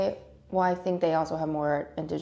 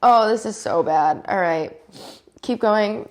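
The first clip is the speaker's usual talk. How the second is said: sneezing; 5 semitones higher, 8 dB louder, slower than usual. Real, not acted. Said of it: "gonna sneeze".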